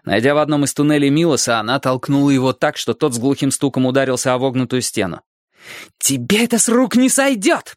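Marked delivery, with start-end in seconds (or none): 6.0-7.8 put-on higher, angry little-girl voice; hissed threat. A narrator's reading. Alli as a girl confronting Milos, angry threat. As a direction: threaten him, pitched up. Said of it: "прошипела она".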